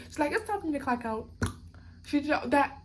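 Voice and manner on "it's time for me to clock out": mildly sassy imitation; sassy agent. Retelling the gate agent clocking out, mock sassy. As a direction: mimic her brush-off with light sass. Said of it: "she was being so sassy with it".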